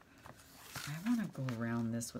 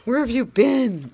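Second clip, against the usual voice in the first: much higher and louder, slow indignant cat voice; voicing the cat; 10 semitones higher, 15 dB louder than usual. Retelling her cat's complaint at her late return, high indignant voice. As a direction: play the offended cat demanding answers. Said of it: "She was like".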